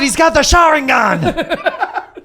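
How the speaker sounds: high loud excited cry; slow giddy exclamation; excited laugh. Real, not acted. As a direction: shout it out thrilled. Excited anime reference.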